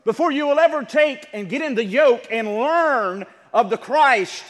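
loud, emphatic sermon delivery; preacher driving the point hard; forceful preaching. Real, not acted. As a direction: press each phrase home to the congregation.

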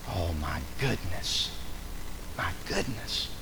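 very low, soft, slow exasperation; hushed dismay. Real, not acted. Preacher reacting to a too-trusting parent, hushed dismay. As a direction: sigh the words out under your voice, low.

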